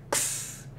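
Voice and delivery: ks whispered, like a cymbal tap; isolated ks sound. Shown as a demonstration. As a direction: hiss a short ks. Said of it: "O K S do final é ks".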